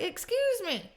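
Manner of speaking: high, scandalised reaction; offended "excuse me". Retold or imitated. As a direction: act affronted at the lie. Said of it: "where you're like".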